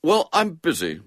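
coldly dismissive schoolboy. A narrator's reading. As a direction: brush her off coldly. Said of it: "said William coldly".

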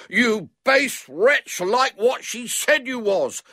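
put-on high, loud, slow boyish bawl. A narrator's reading. Boy through keyhole to locked-in man, bawling. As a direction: bawl the accusation word by word. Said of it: "bawled William".

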